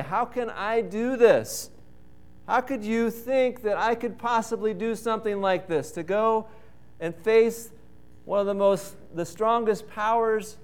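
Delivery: a hint of an anxious, doubting Moses; Moses protesting. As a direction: plead your unworthiness, rising to disbelief. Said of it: "Well, I would say".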